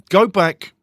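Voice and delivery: booming. Real, not acted. Host admitting he's booming into the mic, loud and pumped. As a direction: boom it out with excitement. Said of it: "And I'm booming in the mic".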